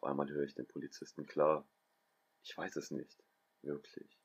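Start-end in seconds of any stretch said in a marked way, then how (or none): 2.4-4.2 softer, worn-out answer; weak and quiet. A narrator's reading. Vincent tells the police he remembers nothing, softer and exhausted. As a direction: barely get it out, drained.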